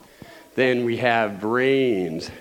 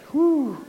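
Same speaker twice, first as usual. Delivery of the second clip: breathless whew; 12 semitones higher than usual. Real, not acted. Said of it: "Man, I'm winded".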